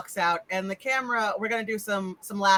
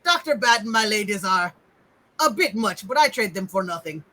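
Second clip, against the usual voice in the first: lightly voiced servant in broken speech; understated henchman musing to himself; Igor. Servant alone at his meal, lightly voiced henchman. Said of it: "Igor eating his human meat going".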